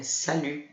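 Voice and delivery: "Salut." with a rounded French U, T silent; crisp "Salut.", no T at the end; modelling "Salut." for the class. Shown as a demonstration. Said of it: "o T final a gente não vai pronunciar".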